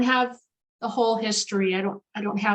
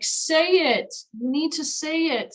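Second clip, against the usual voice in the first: insistent cat voice; 5 semitones higher than usual. Retold or imitated. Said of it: "the cat was like".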